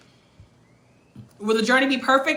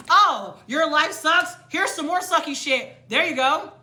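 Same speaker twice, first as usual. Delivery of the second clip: mock universe voice; 4 semitones higher than usual. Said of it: "No, the universe is like".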